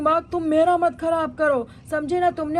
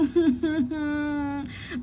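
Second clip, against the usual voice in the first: acted sob; 4 dB quieter than usual. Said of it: "मुझे तो रोना आ रहा है".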